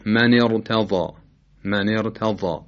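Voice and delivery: من ارتضی with a full, heavy r. Shown as a demonstration. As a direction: recite ارتضی slowly, thickening the ر.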